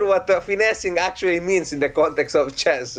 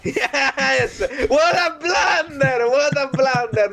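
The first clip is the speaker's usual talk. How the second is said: high, gleeful commentator call; excited commentary; 6 semitones higher, slower than usual. Acted. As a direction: relish the blunder like a pundit. Mock commentator calls a blunder.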